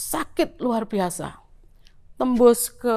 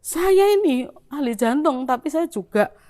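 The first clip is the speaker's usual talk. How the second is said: arguing doctor; 4 semitones higher, 5 dB louder than usual. Retold or imitated. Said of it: "saya tuh kayak tukaran".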